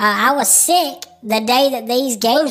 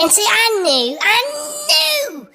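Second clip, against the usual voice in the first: laughing; 11 semitones higher, slower than usual. Real, not acted. Laughing while telling story.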